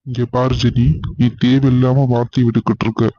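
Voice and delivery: low, firm warning to his wife; husband scolding his wife Jeni, stern. Acted. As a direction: cut her off, stern and low.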